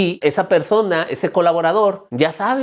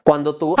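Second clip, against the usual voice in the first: loud scream. Shown as a demonstration. Coach shows a parent yelling at the child, loud scream. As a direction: let out a long open-mouthed yell. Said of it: "que es cuando tú gritas".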